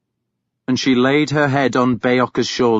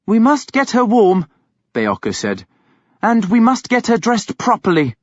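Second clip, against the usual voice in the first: priest voice; 9 semitones higher than usual. A narrator's reading.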